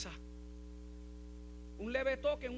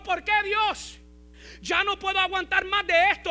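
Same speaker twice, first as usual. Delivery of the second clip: imagined cry to God; 8 semitones higher, 13 dB louder than usual. Pretend. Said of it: "Él no gritó".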